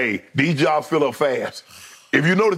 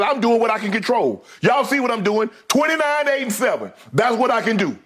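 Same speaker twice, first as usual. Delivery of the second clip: imitating LeBron; 5 semitones higher than usual. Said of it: "LeBron said".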